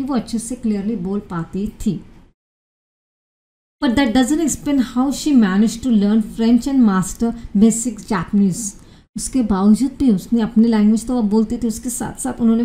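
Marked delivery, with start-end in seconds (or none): 3.8-8.7 slow, careful English reading; measured classroom reading of a text; slow reading aloud. Acted. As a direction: read each English word out slowly for students. Reads English article slowly.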